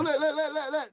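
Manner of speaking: high, eager chant of look; excited look look. Real, not acted. Host spotting the interrobang in chat, excited. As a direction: point it out, thrilled.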